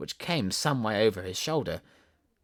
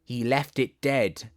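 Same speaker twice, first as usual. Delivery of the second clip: poem recital; slower than usual. Acted. Continues the poem.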